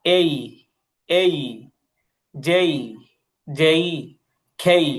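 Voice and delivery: এই, যেই, খেই said slowly, twice each; teacher repeating the letter drill; letter drill repeated. Shown as a demonstration. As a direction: spell out the red letters again, one by one. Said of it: "আবার বলছি, খেয়াল করেন".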